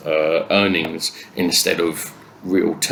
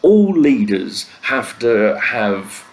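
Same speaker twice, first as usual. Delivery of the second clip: emphatic rant; 2 semitones higher, 3 dB louder, slower than usual. Real, not acted. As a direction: hammer home all leaders, slowing down. Ranting emphasis on all leaders.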